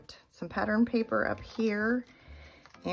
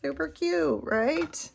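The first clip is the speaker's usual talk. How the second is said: excited; 10 semitones higher, 4 dB louder, slower than usual. Real, not acted. Delighted at cute craft detail.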